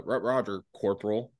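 put-on stumbling, hesitant drunk reply; understated, halting drunken answer; drunk acknowledgement. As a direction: imitate a drunk fumbling his acknowledgement. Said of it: "I'm, like, drunk as shit".

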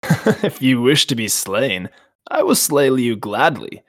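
slow, booming ancient dragon; Glaurung voice. Acted. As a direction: speak as a menacing old dragon. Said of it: "Glaurung laughed, and he said".

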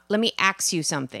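"axe" in place of "ask", k before s; quick demo, "axe" for "ask". Shown as a demonstration. Citing a disliked speech habit, "ask" pronounced "axe". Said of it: "is the axe".

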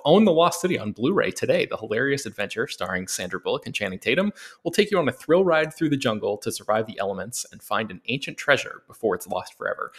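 lightly put-on promo announcer read. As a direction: read the promo copy in your best announcer voice. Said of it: "put on my best announcer voice".

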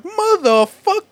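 slow, high, loud mock curse; outraged yell. Actor cut off after meeting replacement, drawn-out high outraged yell. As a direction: stretch out a furious curse. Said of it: "And he's like".

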